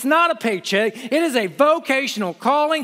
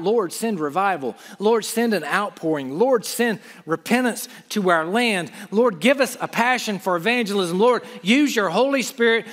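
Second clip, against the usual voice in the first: prayerful plea. Acted. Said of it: "So we cry out".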